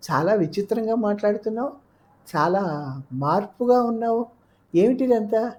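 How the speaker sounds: high, rising puzzled questions; perplexed and insistent, pitched high; puzzled questioning. Acted. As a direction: ask in baffled surprise, voice lifted. Puzzled lover questions her strange talk.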